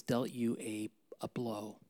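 soft whisper of sympathy; hushed consolation. Real, not acted. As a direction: whisper it gently. Pastor consoling the hurting.

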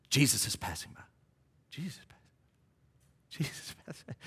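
fading down into a whisper; hushed crowd murmur. Acted. Acts out murmurs passing along crowd.

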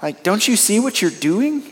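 soft, gentle voice of a loving wife; a lightly voiced wife's tender correction; calm gentle wife. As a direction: imitate his wife's gentle rebuke, hushed on stop it. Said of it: "her calm and gentle, loving voice".

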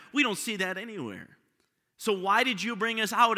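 hammed-up thirsty crowd protesting; complaining Israelites. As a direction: throw the complaint at him, indignant. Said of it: "they come to them and say".

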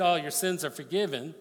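a tossed-off "Oh, your sins are forgiven" as if it cost nothing; offhand, casual. Pretend. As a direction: say it lightly, like a throwaway line. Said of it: "was it easier if I just said".

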